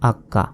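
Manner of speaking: আক্কা as ak-ka, k held then released; doubled consonant. Shown as a demonstration. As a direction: sound the k twice in আক্কা. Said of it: "তাজদিদের উচ্চারণ দুইবার হয়". (আক্কা, ক দুইবার)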